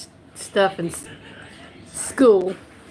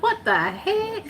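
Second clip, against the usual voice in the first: laughing; 13 semitones higher than usual. Retold or imitated. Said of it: "I'm like".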